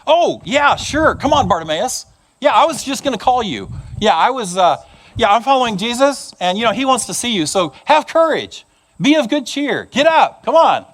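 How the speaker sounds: high, falsely helpful voice; fake eager crowd. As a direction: suddenly pretend you were always on his side. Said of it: "Look at what the crowd says".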